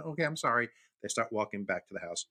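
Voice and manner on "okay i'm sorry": put-on higher, childlike apology; small boy owning up; apologetic little boy. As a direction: imitate a kid saying sorry.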